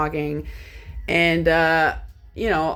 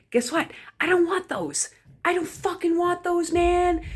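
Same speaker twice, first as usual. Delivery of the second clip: mock indignant voice; 11 semitones higher than usual. Mock rant about roaming charges.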